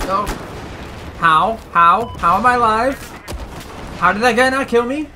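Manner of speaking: amazed he is still alive; disbelief. Real, not acted. Survives against odds.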